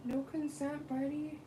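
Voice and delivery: teasing the dog. Real, not acted. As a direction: chide the pet gently. Scolding the dog Kovu.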